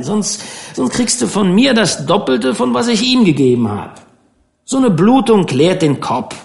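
lightly voiced stern fishing captain; gruff skipper Troop. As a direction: lay down the law to the rich kid. Troop speaks to his son.

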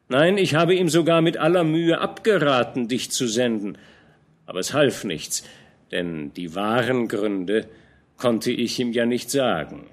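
old general scolding a young knight, lightly voiced; lightly voiced old commander. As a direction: admonish the young man gently but firmly. Fronsberg confides with a knowing air.

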